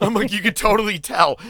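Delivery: high, loud, laughing through the words; giggling at the kid. Retold or imitated. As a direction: crack up while you say it. Laughing retelling of his reaction.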